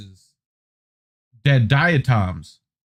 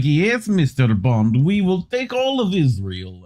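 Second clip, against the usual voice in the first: put-on German villain accent; 2 semitones higher than usual. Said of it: "when it's in a German accent sounds evil".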